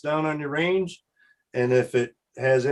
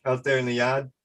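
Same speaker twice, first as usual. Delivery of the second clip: mock Boston accent. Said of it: "the accent that Sean carries".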